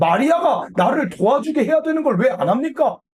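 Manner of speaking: high, loud, indignant complaining tone.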